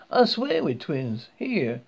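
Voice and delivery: lightly voiced Southern woman; a hint of Southern drawl; friendly Southern accent. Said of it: "speaking in a friendly southern accent".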